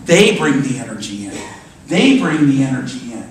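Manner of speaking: "They" punched out, repeated for emphasis; emphatic repetition. Real, not acted. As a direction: stress on THEY. Preacher hammers point by repetition.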